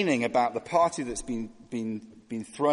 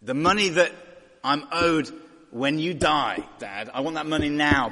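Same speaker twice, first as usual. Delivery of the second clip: bratty demanding son; 6 dB louder than usual. Retold or imitated. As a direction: act the spoiled son pushing dad for cash. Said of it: "He's like".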